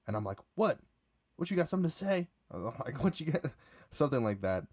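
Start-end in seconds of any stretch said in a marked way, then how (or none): 0.6-2.3 confrontational challenge. Retold or imitated. Squares up to a heckler. 3.0-3.5 confrontational challenge. Retold or imitated. Squares up to a heckler.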